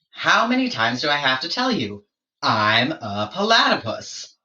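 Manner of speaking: weary, slowed I'm a platypus; exasperated platypus. Acted. Platypus tired of George's questions, lightly exasperated. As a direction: spell it out, fed up.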